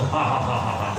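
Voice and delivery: dry imitated ha ha ha, fading low at the end; mock laughter. Preacher mocking doctors' laughter therapy, imitated ha ha. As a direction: mimic a forced laugh mockingly. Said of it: "پاگلوں کی طرح ہاتھ اٹھا کے ہنسو".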